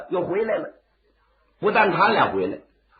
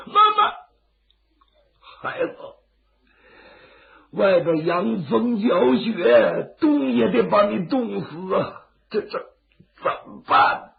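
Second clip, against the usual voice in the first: put-on crying old man; 4 semitones higher than usual. Old man weeps over Zhang.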